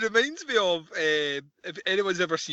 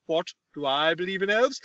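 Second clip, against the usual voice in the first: lightly voiced oddball professor; a hint of mock incredulity, mimicking him; imitating eccentric professor. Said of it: "See the way he's talking?".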